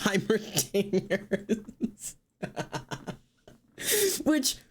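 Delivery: slow words breaking into laughter; laughing. Real, not acted. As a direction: laugh through the name. Laughing at Heimerdinger outfit.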